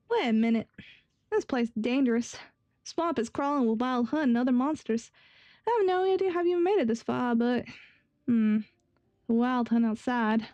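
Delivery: lightly put-on Texan twang; amateur Texan accent. Young guard warning travelers of a dangerous swamp, rough Texan accent. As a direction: warn them in a shaky attempt at Texan. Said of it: "I can't even do a fucking Texan accent".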